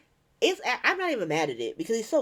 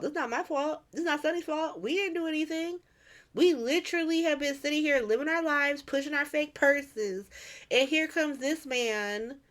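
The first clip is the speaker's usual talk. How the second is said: indignant protest; 4 semitones higher than usual. Retold or imitated. Jason defending himself and Sonny, exasperated protest. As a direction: imitate someone wrongly blamed.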